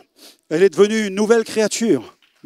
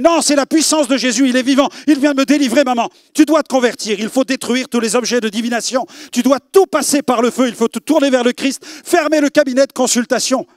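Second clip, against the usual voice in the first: raised, urgent insistence; fervent pleading; 4 semitones higher, 3 dB louder than usual. Retold or imitated. Son urging his mother loudly to convert and burn everything. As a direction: press her hard to convert.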